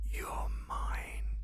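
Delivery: breathy close whisper; whisper in left ear. Acted. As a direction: whisper right into one ear. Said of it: "and whisper into your ear".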